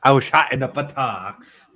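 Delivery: lightly voiced earnest film impression; Forrest. Repeating friend's film quote back, mock-earnest impression. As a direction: echo the line as an earnest simpleton. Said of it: "it based that character on".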